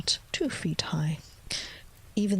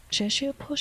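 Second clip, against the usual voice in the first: a hint of a young girl, whispered high; whispered Alice voice; 7 semitones higher than usual. Alice timidly greets the grinning cat, lightly voiced whisper.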